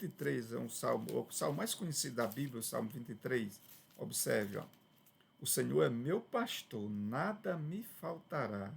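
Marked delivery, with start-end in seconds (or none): 5.4-8.7 slow, measured reading of scripture; slow reverent psalm reading; solemn psalm recitation. Shown as a demonstration. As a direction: recite the verse slowly and reverently, letting the tune carry. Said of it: "Você percebe a entonação da, dos versos".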